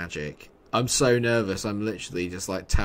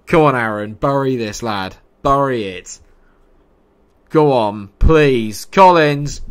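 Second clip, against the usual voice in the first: loud calls building in pitch; will the striker on at full voice; loud, pleading match shouts; urgent cheering on; 3 semitones higher, 11 dB louder than usual. Real, not acted. Urging striker to score.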